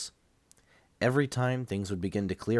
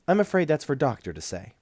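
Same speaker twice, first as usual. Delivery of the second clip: voiced nurse; 7 semitones higher, 3 dB louder than usual. A narrator's reading.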